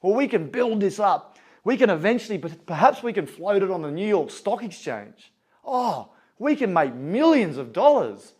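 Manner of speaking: lightly acted banker carried away by big plans; excited banker. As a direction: build the scheme with a touch of glee. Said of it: "the banker's getting all excited".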